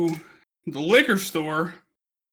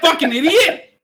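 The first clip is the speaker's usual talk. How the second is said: laughing insult; 9 semitones higher, 6 dB louder than usual. Retold or imitated. Cursing the wine sellers.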